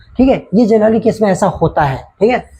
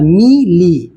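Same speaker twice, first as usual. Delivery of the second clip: MI and LI as separate beats; मी, pause, then ली; syllable by syllable; much slower than usual. Shown as a demonstration. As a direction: break मी ली into two distinct syllables. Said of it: "मी अलग, ली अलग".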